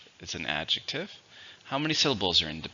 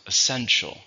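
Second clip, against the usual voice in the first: "Essential" with the stress on SEN; stress on second syllable; 3 semitones higher, 3 dB louder than usual. Shown as a demonstration. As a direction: hit the middle syllable of "Essential". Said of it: "stresses on the second".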